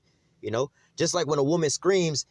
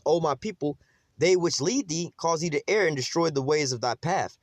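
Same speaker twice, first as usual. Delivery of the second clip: scripture reading. Acted. Reads scripture verse aloud.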